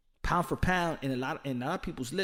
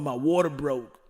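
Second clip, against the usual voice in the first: lightly voiced man in labor, told quickly; a hint of panic, quick "my water broke"; mock dude in labor; 3 semitones lower than usual. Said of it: "having that time of the month and wanna have a baby".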